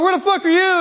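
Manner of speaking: high-pitched retold yell across a room; calling out angrily. Drunk man to his friend back there, calling out angrily. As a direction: demand where your friend has got to.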